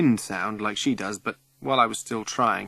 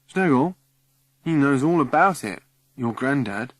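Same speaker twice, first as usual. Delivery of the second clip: 1 eager; 5 semitones higher, 7 dB louder than usual. Acted. Excited boy relays message.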